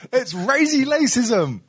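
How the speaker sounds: high, slow, hammed-up Chinese accent; a slow, mocking Chinese lilt swapping r and l in razy lacism. Teasing the friend who called him racist, in a mock Chinese accent. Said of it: "So racist".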